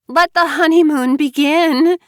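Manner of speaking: high, loud giddy bride's cry; gleeful Mara Joy. Acted. Bride to her new husband, high giddy cheer. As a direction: squeal it out, delighted with herself.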